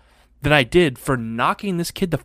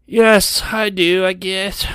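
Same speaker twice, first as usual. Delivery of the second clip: put-on defiant kid; 5 semitones higher, much slower than usual.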